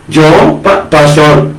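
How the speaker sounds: lightly voiced insincere churchgoer; fawning excuse. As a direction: play the flatterer buttering up the pastor. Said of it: "Muchos cristianos se justifican".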